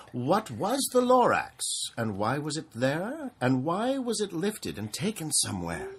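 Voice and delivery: rising, curious storybook questions; wondering questions. Acted. Parent asking the child the Lorax's riddles, curious rising voice.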